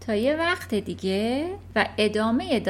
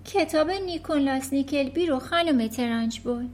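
put-on higher, polite small-girl voice; little girl; 5 semitones higher than usual. Matilda answering the headmistress, polite and small.

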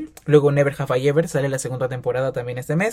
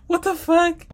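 squeal; slower than usual. Real, not acted. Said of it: "laughing shocked exclamation".

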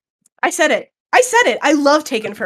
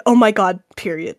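low, deadpan with the punctuation voiced; serious; 4 semitones lower than usual. Reading Claire's punctuated reply to friends, serious. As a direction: drop down for a grave full stop. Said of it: "you can tell this is serious".

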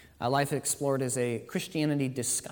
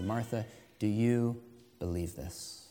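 gentle question; slower than usual. Acted. Jesus asks grieving Martha.

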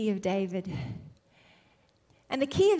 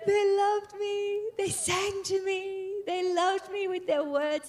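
adoring voice of God; 3 semitones higher than usual. Retold or imitated. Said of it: "he said".

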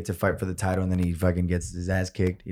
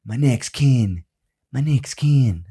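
put-on failed Irish accent; 3 dB louder, slower than usual. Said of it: "I can't do his fucking skin, uh, accent skin".

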